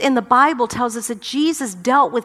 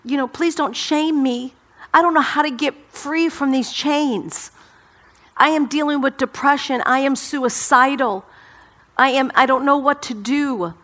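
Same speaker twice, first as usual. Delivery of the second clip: mild pleading; 3 semitones higher than usual. Acted. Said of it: "they think".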